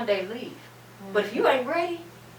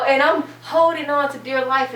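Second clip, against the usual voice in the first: laughing; 4 semitones higher, 6 dB louder than usual. Real, not acted.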